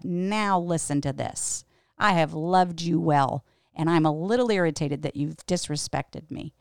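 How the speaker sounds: put-on measured, mildly irritated lecture to the kids; retold scolding. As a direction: re-enact a stern but loving reprimand. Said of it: "scolded them for smoking pot".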